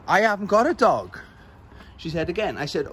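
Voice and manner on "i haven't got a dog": put-on old woman's retort. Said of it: "And she said".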